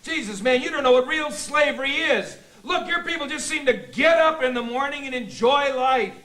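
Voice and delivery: exasperated, bitter tirade; shouting rant. Acted. Husband raging at Bill in group therapy, shouting rant. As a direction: rant at them in aggrieved outbursts. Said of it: "but you're shouting!".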